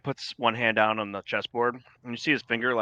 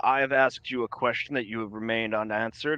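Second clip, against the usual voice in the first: dragon lord's formal voice; 3 semitones higher than usual. Acted. Host voices the dragon lord.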